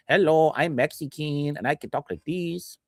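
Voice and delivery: a lightly put-on Mexican accent, mocking; jokey Mexican accent impression. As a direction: imitate a Mexican accent as a jab. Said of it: "'Cause he talks like this".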